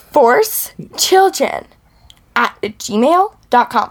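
slow, drawn-out mock Valley Girl. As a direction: ham up a Valley Girl lilt. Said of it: "Valley Girl voice".

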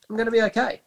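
like it just dawned on him; sudden realisation. Retold or imitated. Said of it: "I was like".

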